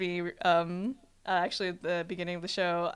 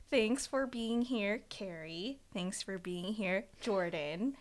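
sentimental voice; 7 dB quieter, slower than usual. Real, not acted. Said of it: "Issa's using her sentimental voice".

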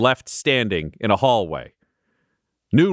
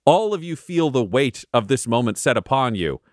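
solemn narration. A narrator's reading. DM's solemn scene setting.

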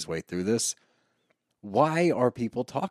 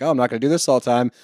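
mock joking wife; 3 semitones higher, 5 dB louder, faster than usual. Mocking Sheena in a joking fight.

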